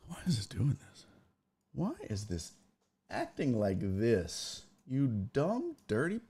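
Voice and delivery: soft muttered complaint to himself; irritated whisper. Real, not acted. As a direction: mutter it under your breath. Muttering at broken software.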